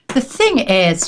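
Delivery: put-on slow, drawn-out Scottish accent on "The thing is". Scottish woman confiding over dinner, slow Scottish accent. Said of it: "with her Scottish accent".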